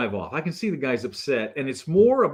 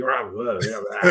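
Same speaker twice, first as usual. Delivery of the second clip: grumbling. Retold or imitated. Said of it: "He's all frumpy".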